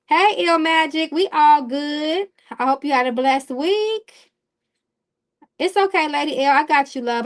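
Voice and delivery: light up and sing out the greeting; excited greeting. Real, not acted. Greeting viewers in the chat.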